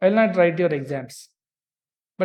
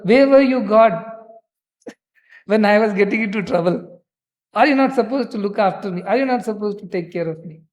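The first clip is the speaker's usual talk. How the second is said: complaining to God; 3 semitones higher, 4 dB louder than usual. Retold or imitated. A devotee in trouble blaming God, in a loud aggrieved complaint. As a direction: protest to God that he failed to look after you.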